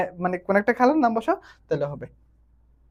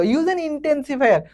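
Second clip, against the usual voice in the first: very slow, spelled-out reading of the instruction; slow dictation; 4 semitones higher, much slower than usual. Shown as a demonstration. Teacher reading the exercise instruction to students, very slow. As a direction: read the task aloud word by word. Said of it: "teacher reads the instruction".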